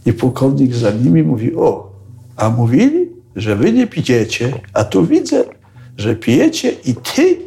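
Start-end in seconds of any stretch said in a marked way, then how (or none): 1.5-7.4 hammed-up high scolding; mock scolding colonel. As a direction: tease them like a stern colonel who caught them. Colonel catching drinkers, voiced.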